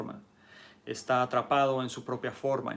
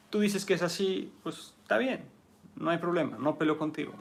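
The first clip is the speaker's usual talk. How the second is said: higher, light, unbothered giving way; easygoing yielding; 5 semitones higher than usual. Acted. Teacher showing how water yields to earth, mild easy calm. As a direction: shrug it off gently, like flowing water.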